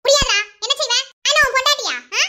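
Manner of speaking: angry retort. Acted. Defying the intruder.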